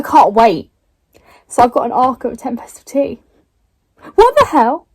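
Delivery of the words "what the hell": thrilled disbelief. Real, not acted. Reacting to getting the arc.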